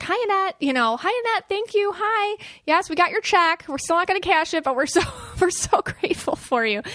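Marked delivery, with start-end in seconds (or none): 0.0-0.6 high, sing-song hello; delighted greeting. Retold or imitated. Greeting her late cousin-in-law, high and delighted. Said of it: "I was like". 1.0-6.8 high, sing-song thanks and hello; delighted greeting. Retold or imitated. Thanking the late cousin for her check, high and delighted. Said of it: "I was like".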